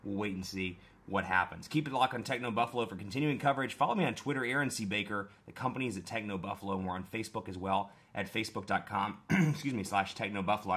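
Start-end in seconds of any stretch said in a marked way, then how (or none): 5.5-10.8 hoarse, fading sick voice; rough throat, voice giving out; losing voice. Real, not acted. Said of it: "I'm clearly losing my voice".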